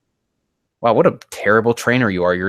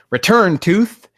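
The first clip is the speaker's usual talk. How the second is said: higher, louder battle command; command shout; 11 semitones higher, 7 dB louder, slower than usual. Acted. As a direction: call the Pokemon back with a shout. Reader voices a trainer's command.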